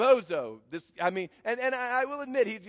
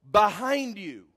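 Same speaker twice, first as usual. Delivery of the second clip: crowd yell; 7 dB louder, slower than usual. Retold or imitated. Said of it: "the crowd would begin to yell".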